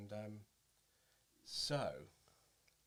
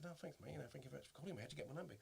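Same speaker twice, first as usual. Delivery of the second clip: meek thanks; 5 semitones higher, 7 dB quieter, much faster than usual. Retold or imitated. Retold humble reply to star.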